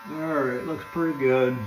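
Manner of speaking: a light American country accent slipping in; slight country accent. Real, not acted. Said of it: "I just had a country accent there".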